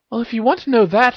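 high-pitched gentle opening. A narrator's reading. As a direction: ease into advice in a high voice. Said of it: "started Hermione gently".

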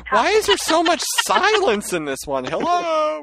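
high, puzzled call into the silence; playfully asking why nobody talks; mock bewildered. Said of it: "I'm like".

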